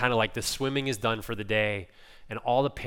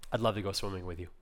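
softly voiced, lower gentle reply; patient mother; 4 semitones lower, 6 dB quieter, much faster than usual. Patient mum agreeing to her little boy's request, softly imitated. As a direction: answer tenderly, voice dropped and soft. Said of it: "few pictures of patience".

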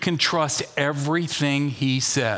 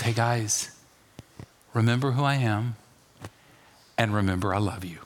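tender; 5 semitones lower, 3 dB quieter than usual. Retold or imitated. Jesus voiced tenderly to church.

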